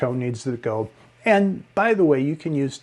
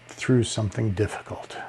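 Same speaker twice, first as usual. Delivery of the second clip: down; 4 semitones lower, 6 dB quieter than usual. Shown as a demonstration. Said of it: "kinda down and out".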